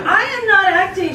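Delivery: firm. Acted. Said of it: "she said firmly".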